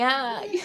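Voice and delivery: drawn-out mock "ai"; imitated moan of pain. Mother retelling labour pains, imitated moan. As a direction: re-enact a labour groan lightly. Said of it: "eu ficava assim".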